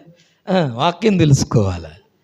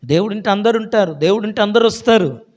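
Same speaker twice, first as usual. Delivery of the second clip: దేవుడుంటే అందరు ఉంటారు said louder with అందరు stressed; emphatic repeat; 4 semitones higher, 6 dB louder than usual. Shown as a demonstration. Preacher repeating to the congregation so they remember, louder. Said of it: "గుర్తుపెట్టుకోండి".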